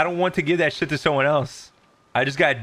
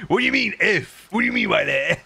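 laughing indignant; 5 semitones higher, 3 dB louder than usual. Real, not acted.

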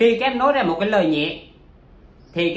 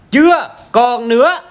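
loud, slow words through laughter; laughing; 5 semitones higher, 10 dB louder, slower than usual. Real, not acted. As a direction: laugh while saying it. Laughing after joke.

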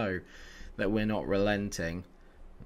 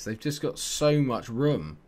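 ordinary talk

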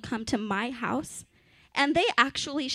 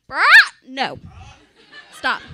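screeching bird cry; pterodactyl shriek; 3 semitones higher, 13 dB louder than usual. Pretend. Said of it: "her pterodactyl impression".

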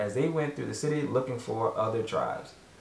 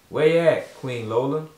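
calling out; 6 dB louder than usual. Acted. Greeting called to the chef.

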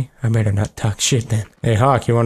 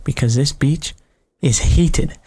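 cocky character voice. Acted. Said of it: "That's the voice I'm gonna give this guy".

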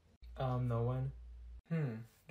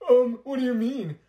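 louder, higher mimicking sneer; mocking repeat; 5 semitones higher, 9 dB louder than usual. Classmate mocking the other's innocent reply, sneering. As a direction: throw her words back at her, mocking.

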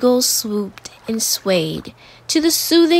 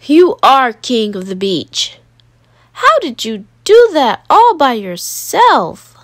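louder, awed praise; admiring crowd; 5 dB louder than usual. Acted. Crowd praising the kid's castle, awed. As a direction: gush over the boy's work.

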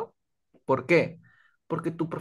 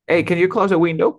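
friendly request; 4 semitones higher, 7 dB louder than usual. Retold or imitated. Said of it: "esa confianza".

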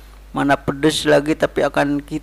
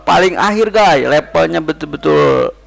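talking while eating soup; eating hot spicy food; mouth full chewing. Real, not acted. Seen 1: Spoon in mouth, then chewing and wincing at spice while talking.

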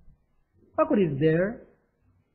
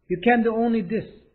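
much slower, words spaced out; slow careful repeat; 3 semitones higher, much slower than usual. Shown as a demonstration. Teacher repeating the line slowly for students. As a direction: say it slowly for the class to copy. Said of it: "repeated slowly".

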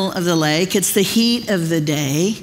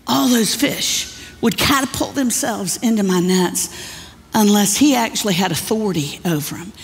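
grizzled fisherman. Retold or imitated. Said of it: "this grizzled fisherman goes".

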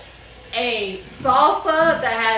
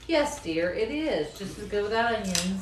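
dry, mock-agreeing yes dear; sarcastic; 3 semitones lower, 6 dB quieter than usual. Wife mocking husband's onion claim, dry sarcasm. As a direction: agree while clearly not meaning it. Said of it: "That's a lot of sarcasm in that statement".

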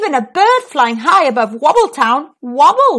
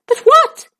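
puzzled butcher; 5 dB louder than usual. Acted.

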